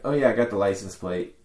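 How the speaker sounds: casual retold remark, slightly understated; nonchalant. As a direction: toss it off as if no big deal. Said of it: "kinda, like, nonchalantly".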